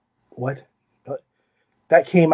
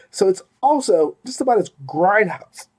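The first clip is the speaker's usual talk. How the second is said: speaking through hiccups; hiccuping mid sentence; 2 semitones higher than usual. Real, not acted. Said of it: "I don't know why I'm hiccuping all of a sudden".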